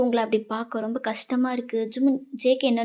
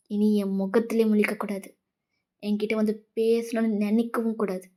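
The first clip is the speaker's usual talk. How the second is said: hurt woman cutting ties. Acted. Hurt woman warning a friend never to speak to her, coldly wounded.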